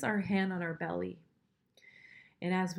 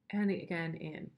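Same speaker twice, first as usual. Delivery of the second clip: guided breathing. Shown as a demonstration. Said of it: "let's just do it once together".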